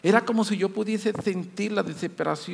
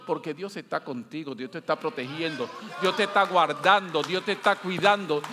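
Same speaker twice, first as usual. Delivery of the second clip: reassuring; 3 semitones lower than usual. Real, not acted. Preacher gently reassures the listener. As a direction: comfort them, let the voice settle. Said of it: "reassuring the congregation".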